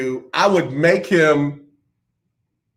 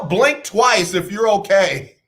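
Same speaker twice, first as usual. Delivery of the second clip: mock call; 3 semitones higher, slower than usual. Mock concern, called out.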